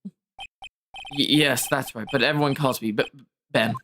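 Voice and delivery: low, halting, nervous mumble; lightly voiced jittery ventriloquist; nervous stammering man. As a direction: stammer it out like a shy performer. Ben stammering his name.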